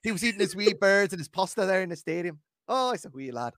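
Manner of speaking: lightly hammed Irish accent; mock stage-Irish storytelling. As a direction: tell it in a playful put-on Irish voice. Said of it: "Give us the Irish accent".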